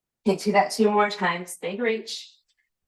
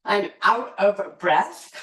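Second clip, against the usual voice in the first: slow, drawn-out breathless sigh of a voice; mock out of breath; 3 semitones higher, 3 dB louder, slower than usual. Yoga teacher voicing her tired mind to the class, slow and breathless. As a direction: play your own tired mind, dragging the words. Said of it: "My mind was like".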